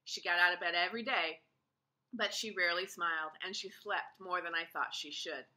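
usual speaking voice

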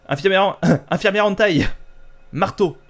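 high, loud catchphrase shout; mock battle cry. Player attacks game nurses with the hammer, mock battle cry. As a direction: yell it like a hammed-up attack call.

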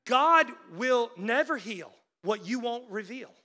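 slow, deliberate, stressing heal and reveal; emphatic restatement. Real, not acted. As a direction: land the rhyme slowly. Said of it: "That rhymes too".

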